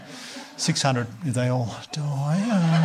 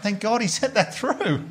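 laughing sarcasm; 6 semitones higher than usual. Retold or imitated. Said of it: "I was like".

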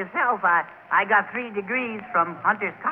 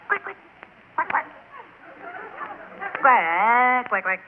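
quacking like a duck; 2 semitones higher, slower than usual. Shown as a demonstration. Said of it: "you have to quack like a duck".

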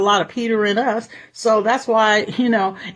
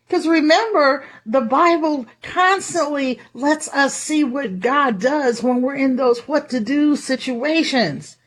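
usual speaking voice

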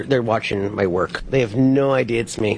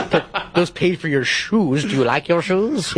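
teasing through laughter; 7 semitones higher than usual. Retold or imitated. Dad teasing son, laughing.

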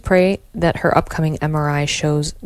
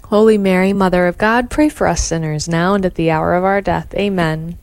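steady devout rosary response; prayer recitation. Acted.

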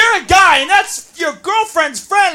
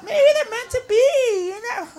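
mock hopeful naive; 5 semitones higher, 7 dB quieter than usual. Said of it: "I'm like".

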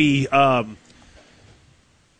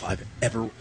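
soothing voice; 7 semitones lower, 8 dB quieter than usual. Retold or imitated. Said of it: "like, soothing voice".

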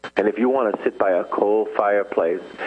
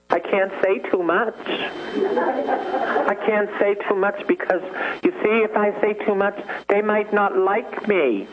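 high, nervous mock voice of a cowering priest; timid priest parody; 10 semitones higher than usual. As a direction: mimic a priest hiding in the corner, pitched high.

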